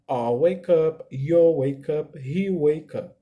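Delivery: "I'll", "you'll", "he'll" each as one syllable; contraction drill. Shown as a demonstration. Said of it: "A pronúncia do pronome I mais o will é I'll".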